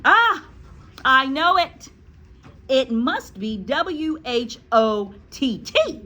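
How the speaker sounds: high, loud eureka; excited schoolboy. Acted. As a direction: burst out as a pupil who has it. Eric thinks he has it.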